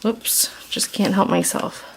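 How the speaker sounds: sheepish whispered aside; a giggly, guilty whisper to the viewer. Real, not acted. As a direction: confess it under your breath. Sheepish aside about nerdy excitement.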